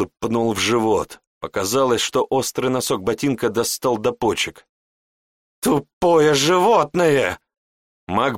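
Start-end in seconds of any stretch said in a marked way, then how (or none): 5.6-7.4 very slow, loud, higher furious yell; furious insult. Acted. Raging mage insults the apprentice. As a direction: spit the insult out in rage.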